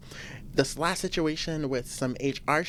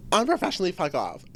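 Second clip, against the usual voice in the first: mock curse; 4 dB louder than usual. Real, not acted. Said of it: "That's what I'm gonna be saying a lot".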